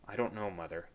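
quiet answer. A narrator's reading. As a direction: answer his mother quietly. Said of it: "he answered quietly".

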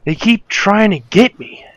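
high, loud, slow whining; whiny complaint. Real, not acted. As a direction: moan that the sharks won't stop. Complaining after repeated shark attacks.

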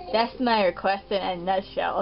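Doctor Shrunk voice. Acted. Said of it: "that sounds a bit better".

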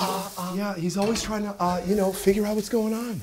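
high, hesitant actor impression with stammered uhs; Jason Bateman. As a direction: sound like you're trying to figure things out. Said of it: "Bateman is essential".

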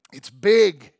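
a loud, booming cry; shouted climax. Acted. Preacher to congregation, booming shout. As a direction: hit the peak of the build.

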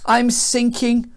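high, drawn-out moan; acted groaning dismay; woeful groan. A narrator's reading. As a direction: wail it as if going under. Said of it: "Jonah groaned".

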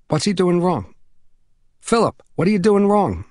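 put-on high child's voice, insistent question; pestering young boy. Boy calling through the door at his friend, high and insistent. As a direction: pipe up like an impatient boy.

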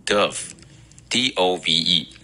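dove then spelt letter by letter, slowly; spelling out. Shown as a demonstration. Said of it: "叫做".

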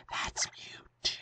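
hushed unvoiced whisper. Real, not acted. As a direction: whisper the name in awe. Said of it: "why are we whispering".

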